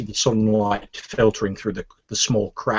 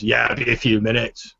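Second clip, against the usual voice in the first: orc barkeep to customer. Acted. Orc barkeep turning back to the customer, casual. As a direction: back to conversational pitch. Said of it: "turns back to you and Orky says".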